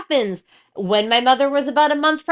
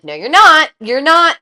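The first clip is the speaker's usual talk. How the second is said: indignant refusal; 3 semitones higher, 9 dB louder than usual. Retold or imitated. Refusing pelvic exam retold.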